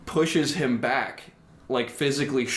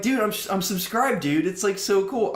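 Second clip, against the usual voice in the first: mock dude-bro voice; 9 semitones higher than usual. Mocking a dude-bro classmate.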